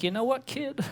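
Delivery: high, loud proud-father send-off; see your kid off to college like a dad. Retold or imitated. Comic sending girlfriend off like a dad to college, high and loud. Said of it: "I was like".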